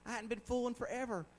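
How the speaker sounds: high, soft, gushing imitation; imitating a grateful daughter. Preacher mimics her thanks for the gas, high gushing voice. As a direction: pitch it up in sweet, surprised gratitude. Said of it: "she saw it right off. Said".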